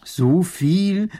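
high, loud startled gasp of a question; shocked baron. Acted. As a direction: recoil at the price.

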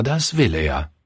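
ordinary delivery

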